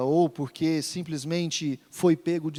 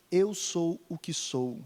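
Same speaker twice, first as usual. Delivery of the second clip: solemn voice of God; 3 semitones lower, 3 dB quieter than usual. Retold or imitated. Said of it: "na mesma entonação que o próprio Deus disse".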